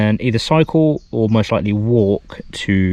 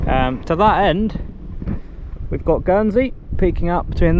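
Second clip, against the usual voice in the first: raised, higher voice against wind; shouting over wind; 5 semitones higher than usual. Real, not acted. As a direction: project over the gusts outdoors. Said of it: "I'm shouting a little bit 'cause I don't know if you can actually hear me over the wind".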